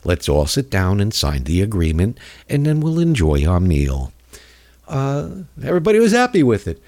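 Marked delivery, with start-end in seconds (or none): 0.1-4.1 Schumer impression. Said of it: "Chucky Schumer would say".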